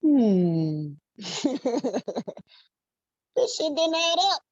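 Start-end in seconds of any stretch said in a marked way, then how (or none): 0.0-0.9 mock thinking hum.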